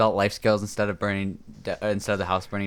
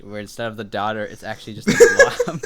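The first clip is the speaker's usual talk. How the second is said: laughing. Real, not acted. Laughing while describing joke.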